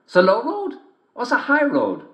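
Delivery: high sly wolf voice; big bad wolf sweet-talking a girl. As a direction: greet her like a cunning wolf. Wolf asks path.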